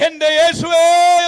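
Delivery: a heartbroken call to Jesus; crying out. Acted. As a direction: cry out as if heart breaking.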